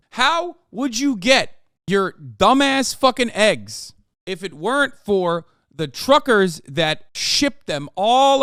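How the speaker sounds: high, loud, outraged yelling; furious rant. Real, not acted. Ranting furiously at Matt Walsh.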